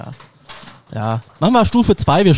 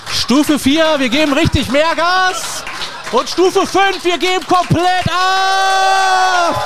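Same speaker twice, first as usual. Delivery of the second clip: climbs from a raised call to a slow, much higher, far louder shout; building to a shout; 12 semitones higher, 4 dB louder, slower than usual. Shown as a demonstration. Warm-up host building the applause up to a full shout. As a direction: whip the crowd up stage by stage until yelling. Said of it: "du machst das jetzt mal".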